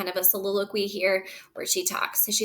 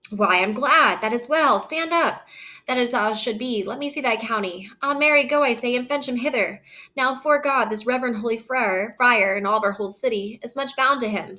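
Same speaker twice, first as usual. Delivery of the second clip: glad father; 3 semitones higher, 4 dB louder than usual. Acted. Father delighted, reading Capulet aloud.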